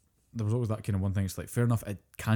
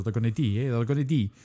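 put-on Dundonian accent; Dundee accent; 3 dB louder than usual. Shown as a demonstration. Showing co-host how Scottish accents differ, Dundee accent. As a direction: imitate a Dundee local's vowels. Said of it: "then you've got your Dundonians".

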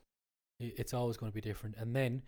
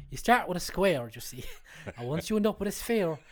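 playful punchline; 3 semitones higher, 6 dB louder than usual. Acted. Punchline joke, loud high.

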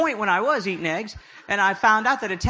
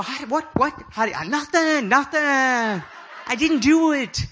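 higher, panicky stammering denial; flustered child denial; 5 semitones higher than usual. Retold or imitated. Boy caught by mom at the door, panicky denial. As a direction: caught kid scrambling for an excuse. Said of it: "I go".

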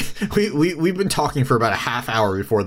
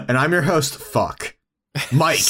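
mock stumble before MIKE, with a muttered FUCK in the gap; mimicked forgetful pause. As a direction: imitate the host blanking before MIKE. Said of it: "it sounded like a".

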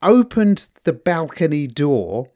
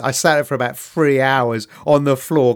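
ordinary delivery

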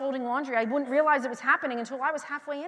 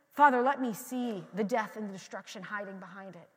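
hushed, lower prayer; earnest prayer; 4 semitones lower than usual. Acted. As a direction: intimate petition to God.

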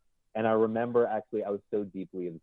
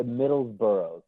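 slow, clear; 3 dB louder, slower than usual. Shown as a demonstration. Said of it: "I wanna make sure I got the last part".

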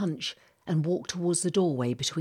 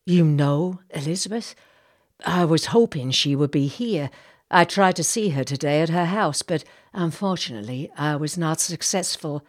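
courteous captain, a touch louder; Jacob, polite; 5 dB louder than usual. Acted. Captain asking the lady if they've met, polite and restrained.

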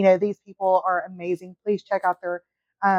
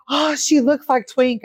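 higher-pitched mock Irish accent, slow and drawn out; fake Irish accent; 5 semitones higher, slower than usual. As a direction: imitate an Irish woman's accent, amateurishly. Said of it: "my fake Irish accent".

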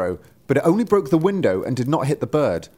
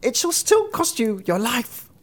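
very high, piercing bird threat; crying sparrow; 12 semitones higher than usual. A narrator's reading. Sparrow threatening from the man's mouth, high cry. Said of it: "stretched out its head and cried".

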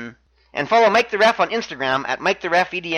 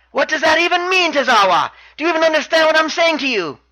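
high-pitched baffled demand; imitated exasperation; 9 semitones higher than usual. Champion to uncomprehending challenger, high imitated exasperation. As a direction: question him in mock frustration, pitched well up. Neville baffled by one-word replies.

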